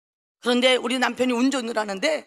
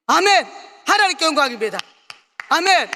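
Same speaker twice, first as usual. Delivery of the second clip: loud amen; 4 dB louder than usual. Real, not acted. Preacher's praise.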